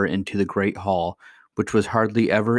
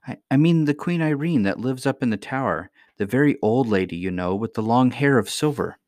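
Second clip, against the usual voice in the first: put-on lightly raised young girl voice; little girl voice; 4 semitones higher than usual. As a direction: voice an eager little princess. Irene describes grandmother.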